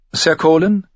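lady calling to her escort; noble lady. A narrator's reading. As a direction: address her companion. Caitlin voiced in the story.

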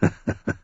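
short unvoiced chuckle; soft breathy laugh. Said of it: "Littlefinger lachte".

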